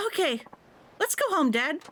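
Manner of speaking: put-on high, eager child; happy kid. The kid agreeing to go home.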